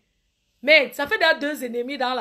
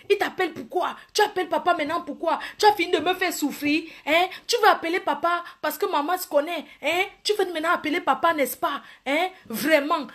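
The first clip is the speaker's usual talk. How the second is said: higher, taunting sibling voice; mocking sibling; 5 semitones higher than usual. Brother taunts sibling for phoning papa, high mocking whine. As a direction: needle him for calling papa.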